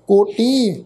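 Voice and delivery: ਕੋਟੀ with a lightly nasalised final long ee; slight nasal ending. Shown as a demonstration. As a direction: let the last vowel of ਕੋਟੀ hum slightly through the nose. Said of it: "ਥੋੜ੍ਹਾ ਬਿੰਦੀ ਨਾਲ pronounce ਕਰਾਂਗੇ".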